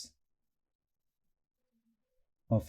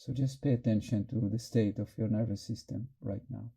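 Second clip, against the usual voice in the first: calm, unhurried meditation guidance; guided meditation. Real, not acted. Teacher helping the group notice nervousness, in calm guided meditation. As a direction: guide their attention inward, leaving long pauses. Guides attention to inner state.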